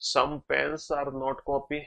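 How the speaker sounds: very slow, word by word, reading out a conclusion; slow dictation. Shown as a demonstration. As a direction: spell the conclusion out for students. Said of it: "तो दूसरा conclusion तो hundred percent true है".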